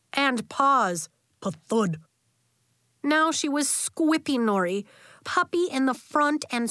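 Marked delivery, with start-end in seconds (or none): 1.4-2.0 pa-thud as a landing noise; narrated thump effect; thud sound word. A narrator's reading. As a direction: drop the word like a paw hitting floor.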